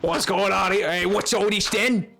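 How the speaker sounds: hammed-up English accent for Sam the cat. Streamer voicing her cat Sam in an English accent. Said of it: "my perfect English accent".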